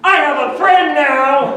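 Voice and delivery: loud, slow, laughing cry of joy; overjoyed at being friend-zoned; triumphant laughing shout; mock delight. Comic mock joy at rejection.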